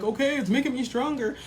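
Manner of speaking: mock the listener's sigh; annoyed mocking. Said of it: "that's annoying for people to hear".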